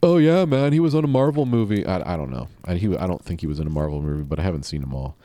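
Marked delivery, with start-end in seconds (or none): 0.0-1.9 mock excited. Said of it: "I don't know if he's been around".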